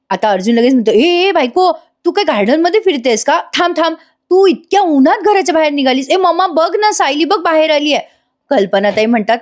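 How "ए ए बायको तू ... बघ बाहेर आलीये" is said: higher, eager voice of a husband spotting his wife; excited husband. Acted. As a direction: call out to her, excited and a little worried. Narrator voices excited Arjun. (बायकोला पाहून उत्साहित नवरा, उंच आवाजात)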